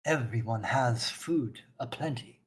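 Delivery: slow, measured proclamation in a lightly put-on voice; lightly voiced solemn zealot; stern zealot priestess, measured. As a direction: draw out each phrase with grave certainty. Plays NPC Orthelia.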